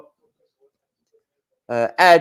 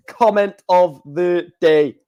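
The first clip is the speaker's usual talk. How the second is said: laughing; slower than usual. Real, not acted. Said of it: "That's tickled me".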